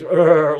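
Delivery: a loud mock grunt of pain, as Sideshow Bob hit by a rake. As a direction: grunt as if a rake just hit your face. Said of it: "and goes bang to his ears".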